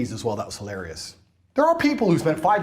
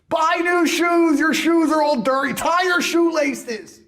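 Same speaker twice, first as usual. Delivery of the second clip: scolding; 10 semitones higher, 3 dB louder, slower than usual. Real, not acted. Berating the broke crypto guy.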